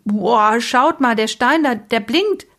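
girl calling out in eager fake wonder; excited call. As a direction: call out to pull attention away. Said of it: "rief Mala plötzlich".

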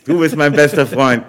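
high, loud, laughing through the words; can barely speak for laughing. Real, not acted. Helpless laughter at the joke.

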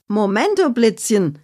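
high, bright-voiced call to halt; a lightly voiced spunky Annabella calling out. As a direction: stop them with a cheeky high shout. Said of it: "rief Annabella".

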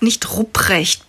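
nicht Rupprecht, slow and deliberate; slow correction. Acted. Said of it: "Er hat Rupert gesagt". (langsam betont: nicht Rupprecht)

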